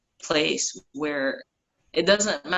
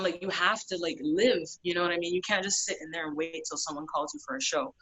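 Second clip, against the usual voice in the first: friend's pep talk; 3 semitones higher than usual. Retold or imitated. Friend lecturing her to live.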